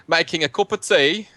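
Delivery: lightly put-on British accent; horrible British accent. Caster jokes about tea in the kitchen, bad British accent. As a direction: slip into a bad British accent mid-commentary. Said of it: "What is, what is that accent?".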